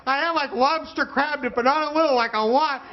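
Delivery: high, anxious pleading; panicked pleading. Retold or imitated. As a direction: beg your mother frantically. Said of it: "freaking out".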